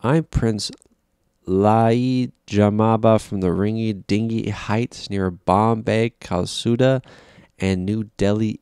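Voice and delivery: imitating a hammed-up Indian accent, loud and grand; mock Indian accent. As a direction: announce yourself as a pompous prince in a mock Indian accent. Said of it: "But it's a stupid accent".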